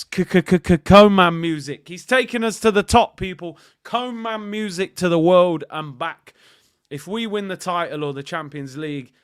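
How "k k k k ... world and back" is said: loud, slow hype calls; booming showman chant; hype announcer. Acted. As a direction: pump up the crowd. Hype segment continues.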